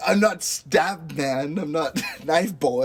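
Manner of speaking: lightly voiced movie character, slow; Blue Raja. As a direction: draw it out in a half-hearted character impression. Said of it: "the Blue Raja".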